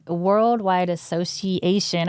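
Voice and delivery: slowly sounding out Association; careful, deliberate Worldwide Association; slow careful retry. Real, not acted. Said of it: "I can't say that word".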